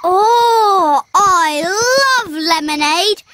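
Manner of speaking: delighted gush. Acted. Delighted at offer of lemonade.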